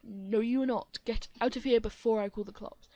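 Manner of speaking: loud shouting; heated argument. Acted. Mom and the other mom trading loud threats. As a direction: shout back. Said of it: "argument continues".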